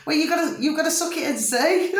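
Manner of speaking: trying to get it out before the laugh takes over; giggly. Real, not acted. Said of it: "this giggling bit".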